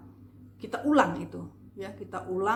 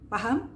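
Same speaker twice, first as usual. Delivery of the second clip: "Paham?" with a rising tune; questioning intonation; 2 semitones higher than usual. Shown as a demonstration. Coach checking learners understand, rising "Paham?". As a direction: lift the end of "Paham?" as a check. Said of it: "Contoh dari intonasi itu paham".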